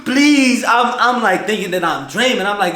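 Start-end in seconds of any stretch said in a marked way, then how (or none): 0.1-0.6 mock crying plea. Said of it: "I'm crying".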